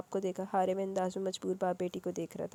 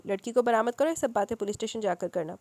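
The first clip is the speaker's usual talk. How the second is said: lightly bitter, curt policeman; a touch of harsh impatience; 5 dB louder than usual. Acted. Policeman dismisses the father, mildly bitter. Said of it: "تلخی سے بولا".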